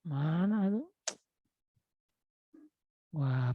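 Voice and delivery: ordinary talk, nothing marked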